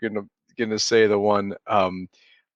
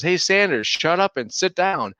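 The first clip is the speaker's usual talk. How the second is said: higher-pitched mock heckle, slowing at the end; retold telling-off, pitched up; heckling fan; 6 semitones higher than usual. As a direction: imitate an annoyed fan in the stands.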